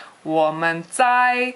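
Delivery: 我们在 squeaked a bit too high; mock high-pitched missionary. Teacher imitates new missionaries saying 我们在 in a mock high pitch. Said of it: "very high pitched".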